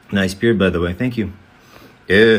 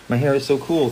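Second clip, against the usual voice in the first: laughing; 2 semitones higher, faster than usual. Real, not acted. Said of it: "laughing reply".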